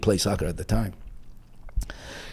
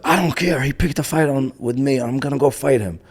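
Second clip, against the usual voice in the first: raised-pitch, mildly heated insistence; stubborn defiance; 5 semitones higher than usual. Retold or imitated. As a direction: refuse to back down, acted lightly. Stubborn teen insists on fighting.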